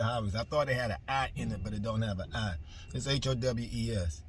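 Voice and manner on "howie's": "Howie's" said as HOW-eez; Howie's in two syllables. Shown as a demonstration. Explaining the brand's spelling to viewers, "Howie's" as HOW-eez. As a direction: sound out "Howie's" with ow, then eez. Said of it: "Some pronounce it Howie's".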